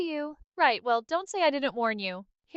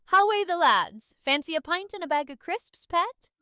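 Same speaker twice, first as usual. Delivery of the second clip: higher-pitched Geordie accent attempt; 5 semitones higher than usual. Shown as a demonstration. One more shot at the Newcastle accent, Geordie. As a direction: give it a cheeky Geordie accent. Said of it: "The Newcastle".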